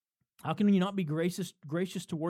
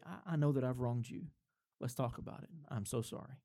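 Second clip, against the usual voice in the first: softer, lower, contrite husband; acted apology; 3 semitones lower, 4 dB quieter than usual. Husband going to his wife first to apologize, softly contrite. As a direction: apologize gently, voice dropping softer.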